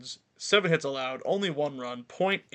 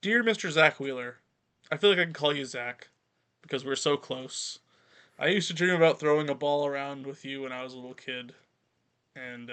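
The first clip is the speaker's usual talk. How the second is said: mock heartfelt apology letter; sincere. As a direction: read it like a sincere love letter. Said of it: "You need to say it again".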